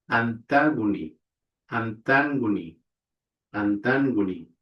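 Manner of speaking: antagony with ng, voiced g; pronunciation demo. Shown as a demonstration. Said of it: "which is pronounced N G".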